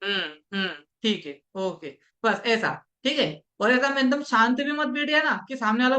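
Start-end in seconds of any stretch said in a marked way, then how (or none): 0.0-2.0 low, softer hmm okay; quietly nod along in words; gentle listener's backchannel; soft agreeing murmurs. Shown as a demonstration. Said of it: "उनके हाँ में हाँ मिलाना है".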